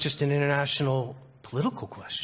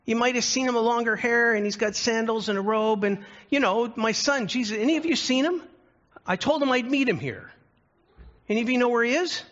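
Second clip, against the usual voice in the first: a much higher voice, asking the room for his son; Richard Pryor as God; 9 semitones higher than usual. Retold or imitated. Preacher voicing Richard Pryor as God looking for Jesus, high anxious calls. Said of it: "And he said".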